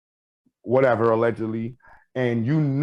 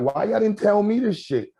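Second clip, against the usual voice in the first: exasperated rant; 3 semitones higher than usual. Retold or imitated. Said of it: "I'm like".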